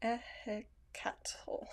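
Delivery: whispered name, very slow; hushed careful attempt at the name. Real, not acted.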